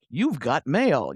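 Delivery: slow, drawn-out announcer voice imitation; light mock of a slow robotic announcer; imitating the AOL announcer. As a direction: stretch each word like the old computer voice.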